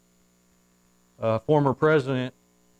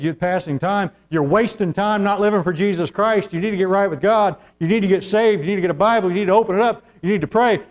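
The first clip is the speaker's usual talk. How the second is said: "you need to" hammered home, loud and high; preaching at her; 7 semitones higher, 7 dB louder than usual. Pretend. Preacher voicing what the candidate should have said, shouting. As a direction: thunder the list as if she'd said it. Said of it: "If she'd have said".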